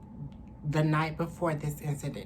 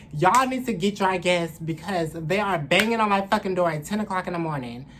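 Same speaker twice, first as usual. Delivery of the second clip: retold demand; 3 semitones higher, 6 dB louder than usual. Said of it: "and I'm like".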